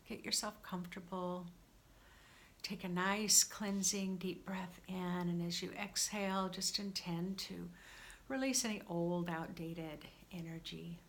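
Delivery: calm, unhurried meditation guidance; guided meditation. Real, not acted. Guide settling listeners for a cleansing breath, calm meditation voice. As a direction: ease them into it, leaving gentle pauses.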